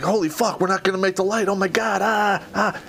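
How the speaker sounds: mock panic, pitch climbing to the cries; mild retold panic. Jumper fretting over missing the light, mild panic. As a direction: play rising alarm, not full-out.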